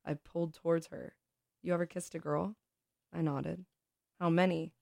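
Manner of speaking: expressive read-aloud of a story. Acted. Reads a short story aloud.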